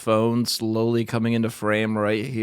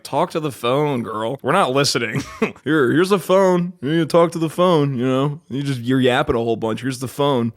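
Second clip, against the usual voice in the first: sarcastic mock scolding. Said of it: "It almost feels like a sarcastic".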